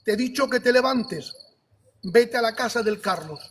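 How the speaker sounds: firm, clearly projected command; voz audible. Retold or imitated. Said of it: "pero así, ¿eh? Una voz audible". (orden divina imitada, firme y bien audible)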